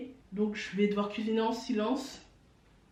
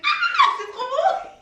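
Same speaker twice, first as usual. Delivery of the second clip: very high, slow, laughing squeal; delighted squeal; 7 dB louder, much slower than usual. Real, not acted.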